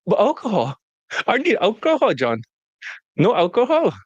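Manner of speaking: mock student begging John for alcohol; pleading student. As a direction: pitch up and beg for a drink.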